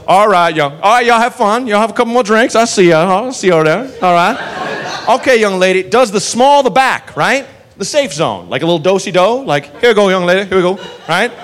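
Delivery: high, cheery southern cop ushering her out; a friendly do-si-do out the door; jaunty southern cop. Retold or imitated. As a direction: cop sweetly walking the drunk woman out. Cop escorts woman out.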